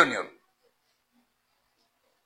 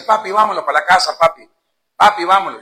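put-on child pleading; 5 dB louder than usual. Child begging drunk father.

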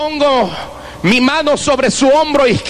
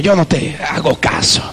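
gruff brush-off; 6 semitones lower than usual. Retold or imitated. Tough guy brushing him off.

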